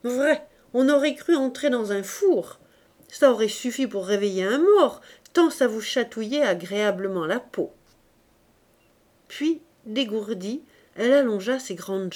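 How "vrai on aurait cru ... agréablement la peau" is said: a bit louder; mild exclaiming. Acted. Virginie raves about the hot shop, mild exclaiming. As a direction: marvel at the warmth. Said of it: "elle s'exclamait".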